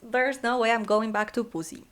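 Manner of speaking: acting out a firm mock verdict; emphatic retold reaction. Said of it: "I was like".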